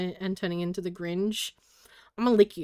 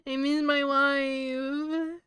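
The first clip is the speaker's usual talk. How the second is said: mock wail; 4 semitones higher, much slower than usual. Mock lament for absent wife.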